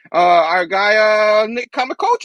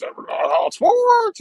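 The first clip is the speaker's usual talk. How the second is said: sarcastic drawl; much slower than usual. Acted. Drawn-out high sarcasm.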